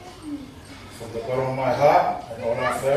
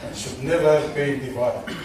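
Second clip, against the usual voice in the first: out of breath, pausing for air. Real, not acted. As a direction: still short of breath. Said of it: "please let me catch my breath again".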